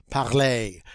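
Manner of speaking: "Parler" as pakh-LAY; L after throaty R. Shown as a demonstration. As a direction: model "Parler", throaty r into a clear L. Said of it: "hard to say that L after the ch".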